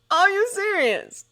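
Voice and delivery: high, loud, slow disbelief; can't believe his ears; stunned man on the phone in disbelief; incredulous. A narrator's reading. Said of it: "said John incredulously".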